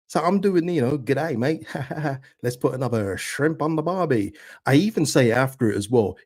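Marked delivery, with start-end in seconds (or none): 1.0-4.3 hammed-up Australian accent, light touch; mild cheery Australian accent, tossed off; Australian accent impression. Quoting his own Dumb and Dumber bit in a lightly done Australian accent. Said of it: "in the voice I was doing".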